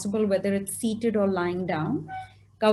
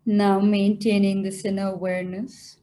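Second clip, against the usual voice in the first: guided meditation; 3 semitones lower than usual. Acted. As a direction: guide them gently into stillness, phrase by phrase.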